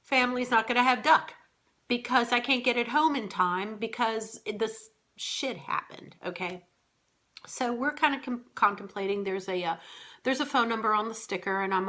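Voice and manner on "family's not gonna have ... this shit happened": mother instinct panic. Retold or imitated. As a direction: fret over getting the duck home in time. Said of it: "the first thing was".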